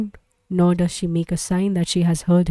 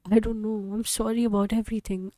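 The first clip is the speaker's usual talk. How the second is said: fading apology; 2 semitones higher, 6 dB quieter than usual. Acted. Son breaking down.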